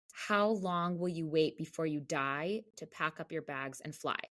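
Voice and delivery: slow, deliberate reading of a lyric; slow recited lyric. Retold or imitated. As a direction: weigh each word of the song line. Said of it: "it went something like this".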